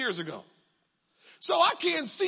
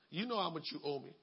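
low gruff voice of a creditor; demanding creditor; 8 semitones lower, 6 dB quieter than usual. Acted. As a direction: lean on him for the money.

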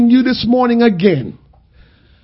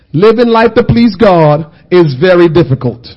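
louder, lower, hammered home; louder emphatic repeat; 3 semitones lower, 7 dB louder than usual. Shown as a demonstration. Preacher repeating it louder for the congregation. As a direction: say it again with force. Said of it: "Somebody say that".

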